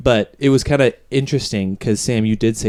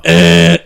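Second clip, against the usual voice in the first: imitated growl; 4 semitones higher, 8 dB louder than usual. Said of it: "I would hear the".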